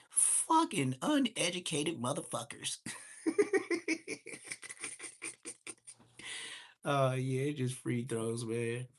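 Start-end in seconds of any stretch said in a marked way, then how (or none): 0.1-2.8 1 laughing quote. Retold or imitated. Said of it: "He said". 3.2-5.7 long high giggle; high cackling laugh. Real, not acted. Laughing hard at his lawyer's insult.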